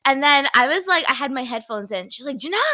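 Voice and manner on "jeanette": loud mock call to get attention; retold yelling. Friend yelling at someone wearing headphones, retold shout. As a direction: imitate a friend yelling a name. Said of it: "started yelling at me".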